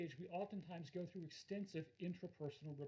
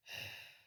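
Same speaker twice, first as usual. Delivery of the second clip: heavy sigh; 3 dB quieter than usual. Shown as a demonstration. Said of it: "and sigh heavily".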